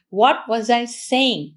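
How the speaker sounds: drawn-out question after losing the thought; slow, lost thread. Acted. Speaker acts out forgetting after trying to talk slowly, drawn out. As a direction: stretch each word as if searching for it. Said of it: "tried to talk slowly".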